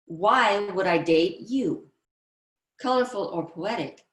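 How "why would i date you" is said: slow, challenging retort; combative. Acted. Combative girl confronting a boy who asks her out. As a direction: throw it back at him as a dare. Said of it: "Here's a combative trait".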